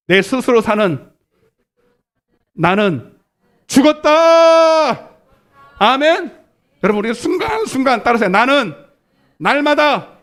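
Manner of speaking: high, loud call-and-repeat preaching; rallying declaration. Shown as a demonstration. Preacher leading the congregation in a declaration, rallying. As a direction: proclaim it for the crowd to repeat, drawing out key words.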